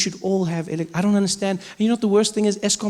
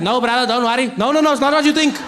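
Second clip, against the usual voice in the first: raised-voice mock protest; panicked pleading; 5 semitones higher, 3 dB louder than usual. Man on the fence to an onlooker, pleading his innocence. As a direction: plead your innocence in a flustered rush.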